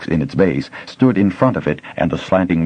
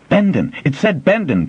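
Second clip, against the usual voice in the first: much higher, eager shout; excited cry; 11 semitones higher than usual. A narrator's reading. Boy recognising the name, excited cry. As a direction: cry out in delight. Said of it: "Pimer cried excitedly".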